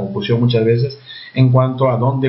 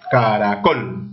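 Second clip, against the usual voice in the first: "Caracol" split into syllables, in a lower voice; dividido en sílabas; 6 semitones lower, much slower than usual. Shown as a demonstration. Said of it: "Divido en cin-, en sílabas". ("Caracol" separado en sílabas, con voz más grave)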